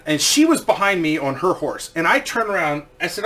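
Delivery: ordinary delivery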